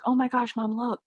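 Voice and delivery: mom voicing her son's high-pitched excited gasp; excited kid. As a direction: squeak it out like an amazed little boy. Son's excited call, voiced by mom.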